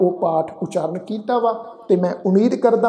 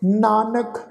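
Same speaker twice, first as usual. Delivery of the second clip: slow scripture recitation; slower than usual. Acted. Recites the verse again.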